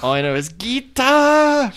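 booming metallic robot; slow, loud, high robot monotone. Retold or imitated. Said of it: "why do you talk in a robot voice".

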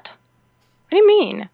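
loud, drawn-out baffled question; retold disbelief. Traveler told to prove Canadian residency, loud disbelief.

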